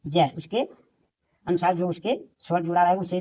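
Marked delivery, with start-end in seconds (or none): 0.1-0.3 ज as a short J sound with a brief vowel; phonic J sound. Shown as a demonstration. Teacher answers how J is read, phonic sound ज. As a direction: sound out ज for learners. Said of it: "उसे क्या पढ़ेंगे?".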